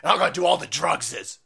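mock lefty. Lefty refusing a job, in a high whiny mock voice. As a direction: whine it like a petulant lefty. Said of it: "And Lefty's like".

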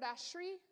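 ashri said as ASH-ree, a rough Hebrew pronunciation; Hebrew word. Shown as a demonstration. Pastor explaining the Hebrew behind blessed, sounding out ashri. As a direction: sound out ashri phonetically, admittedly imperfect. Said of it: "I'm butchering it in Hebrew".

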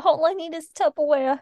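mock Boston street-seller voice; Boston accent. Seed seller asking for Tupperware, put-on Boston accent. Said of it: "I don't know why we made her Boston".

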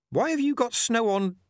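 put-on high, sly old witch voice; old witch hedging craftily with the stranger; Nanny Ogg. A narrator's reading. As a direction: hedge modestly but shrewdly. Ogg calls after.

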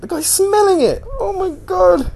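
very high, loud squeal of disbelief; high-pitched, aghast outcry; appalled squeal. Retold or imitated. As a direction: shriek it in horrified disbelief. Reliving his horror at the smell.

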